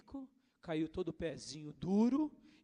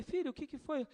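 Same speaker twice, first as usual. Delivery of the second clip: gentle concern; 9 semitones higher than usual. Retold or imitated. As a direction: ask a sulking child kindly. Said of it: "Eu falei".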